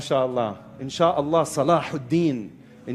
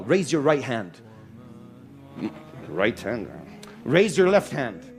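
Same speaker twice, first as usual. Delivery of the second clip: commands. Shown as a demonstration. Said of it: "just to kinda demonstrate".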